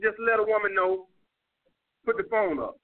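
ordinary delivery

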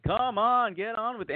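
high-pitched mock yell from backstage; Whoopi Goldberg. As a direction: imitate an impatient heckle, pitched high. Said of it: "Whoopi just starts yelling from backstage".

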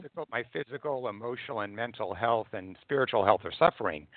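hoarse, fading voice; losing my voice, hoarse and soft; raspy whisper. Real, not acted. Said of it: "I'm losing my voice".

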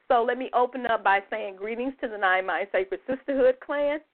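talking between sips of tea; while sipping a drink. Real, not acted. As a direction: sip tea while you speak. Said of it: "Excuse me, I'm drinking my tea".

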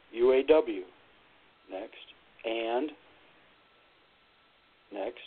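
one word at a time, pausing; staccato. Shown as a demonstration. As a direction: read it word by word. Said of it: "one word at a time".

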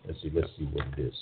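ordinary delivery

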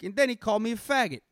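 mock-offended movie line; Casino movie character. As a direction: imitate an indignant film complaint. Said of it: "from fucking Casino where he's like".

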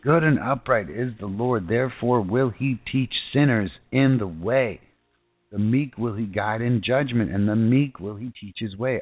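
slow, solemn Bible reading; scripture reading. Acted. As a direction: read the psalm slowly, like a prayer. Reads Psalm twenty-five aloud.

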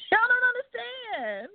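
slow, high, through a laugh; laughing exasperation. Real, not acted. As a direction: laugh it out slowly.

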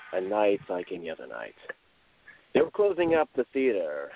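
a hint of a British accent; storyteller slipping into a British accent; lightly put-on British narrator. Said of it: "I speak in a British accent there".

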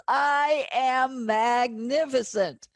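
slow, savoring declaration; booming motivational speech. Shown as a demonstration. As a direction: stretch each word with feeling. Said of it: "feel the emotion of it".

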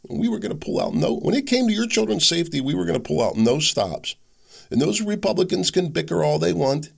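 a light sneering take on a politician; mocking Democrat excuse. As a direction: parody the excuse with a high whiny lilt. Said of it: "this is the story they were telling".

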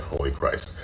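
a hushed, stunned "Holy Christ"; barely voiced, overwhelmed by tears; awed hush. Real, not acted. Alone at home, moved to tears, hushed awe. Overwhelmed, tearful after hearing God.

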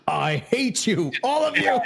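hammed-up sulky groom; grumpy groom. Imitating the groom hating everyone at his wedding, mock grumble. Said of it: "He'll be like".

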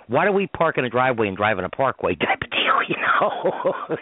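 giggling under the breath; laughing whisper. Real, not acted. Joke told through laughter.

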